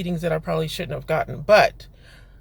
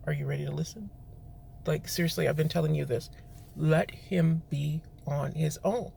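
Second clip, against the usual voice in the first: softly, lightly voiced God; a hushed inner voice, speaking gently; calm quiet voice of God; 2 semitones lower, 6 dB quieter than usual. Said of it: "God's like".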